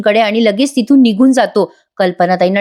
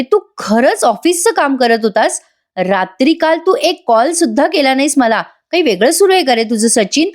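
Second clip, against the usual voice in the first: mildly irritated retold accusation, raised pitch; 4 semitones higher than usual. Wife doubting her husband's office work, mildly irritated. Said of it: "अस्मिता चिडून म्हणते".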